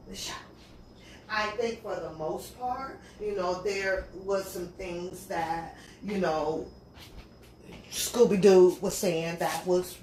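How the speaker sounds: low, soft, deliberate opinion-giving; measured commentary. Pretend. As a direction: drop into a calm, hushed reviewer's delivery.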